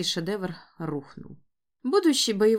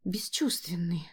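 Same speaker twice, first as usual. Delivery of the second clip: reproachful whisper; 3 semitones lower, 5 dB quieter than usual. Acted. Wife scolding husband.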